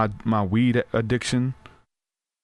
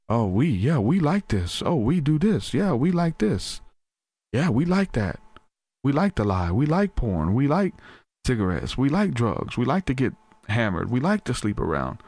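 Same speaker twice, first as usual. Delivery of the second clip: a hint of a tempting inner voice, pitched higher, savouring each "we like"; stronghold voice; 4 semitones higher than usual. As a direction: lightly voice the inner addiction speaking in the plural, enticing. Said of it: "It's speaking in third person".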